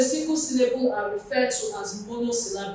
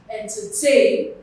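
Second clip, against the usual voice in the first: ENTERTAIN with a louder, longer TAIN; stress on last syllable; 5 dB louder than usual. Shown as a demonstration. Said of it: "Tay carries the stress".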